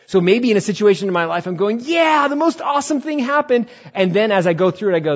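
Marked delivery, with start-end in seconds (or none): 1.8-3.7 loud, high cheer of triumph; over-the-top celebrating; elated. Acted. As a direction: whoop it out way above your usual pitch. Acts out celebrating good news.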